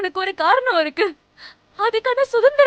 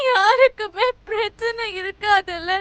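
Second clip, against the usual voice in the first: tearful. Acted. Bride weeps against forced marriage.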